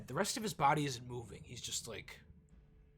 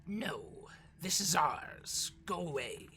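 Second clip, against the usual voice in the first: guardian warning; 4 semitones higher, slower than usual. Acted. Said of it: "A voice calls out to you".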